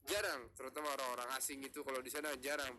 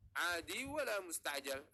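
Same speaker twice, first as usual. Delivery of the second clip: slow model reading; 2 semitones higher than usual. Shown as a demonstration. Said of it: "Artinya biasa atau yang kilat".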